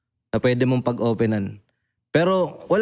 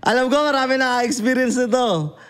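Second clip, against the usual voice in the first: laughing appeal; 10 semitones higher than usual. Real, not acted. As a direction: laugh it out to your bros. (natatawang tawag sa mga tol)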